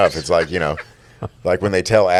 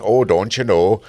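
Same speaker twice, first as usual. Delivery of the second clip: a light, mock Midwest accent on "Oh, don't you know". Podcast host imagines a Midwest preacher, light Midwest accent. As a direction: drop into a hint of Wisconsin for a beat. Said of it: "like a full-on Midwest".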